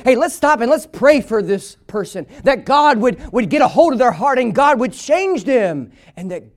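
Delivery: driving, sustained sermon delivery; impassioned preaching. Real, not acted. Preacher to church about a godless generation, impassioned preaching. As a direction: preach it hard without letting up.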